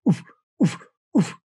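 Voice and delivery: low goose cluck sound; low pitch oof. Shown as a demonstration. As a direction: drop it low for each oof. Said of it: "low pitch voice inflection".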